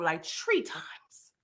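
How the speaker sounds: slow, low and hushed; low aside. Real, not acted. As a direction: drop it down, nearly whispered. First take, said low.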